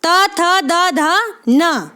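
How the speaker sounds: त थ द ध न listed one by one with small pauses; each letter set apart clearly; reciting letters. Shown as a demonstration. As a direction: count off the letters for the class. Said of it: "ध्यान रखें".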